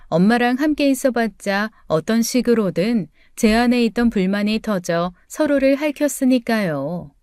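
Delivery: ordinary delivery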